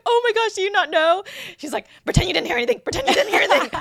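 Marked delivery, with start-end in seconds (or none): 0.0-1.2 high, loud retold alarm; hammed-up horrified question; mortified shock. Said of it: "she turned bright red". 2.0-3.7 high, frantic retold plea; urgent, hammed-up backpedaling; mock panic. Imitates friend covering her slip.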